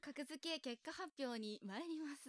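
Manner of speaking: slow, measured host's announcement; results announcement. Real, not acted. Host introducing the ranking results, slow announcement. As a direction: announce the verdict slowly, with suspense.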